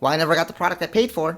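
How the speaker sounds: mock snippy, sassy, snotty tone. Speaker recounts answering a woman who got snotty about a purchase; retelling a snotty reply. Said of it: "My immediately snotty response back was".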